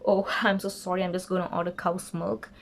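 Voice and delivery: brief mock chuckle, then apology; imitating laughing apology. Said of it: "he was also laughing when he ordered".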